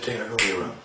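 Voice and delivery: quiet, even, controlled calm. Retold or imitated. Father calmly sending his son to his room. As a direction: hold the anger down and speak evenly. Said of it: "So I said very calmly".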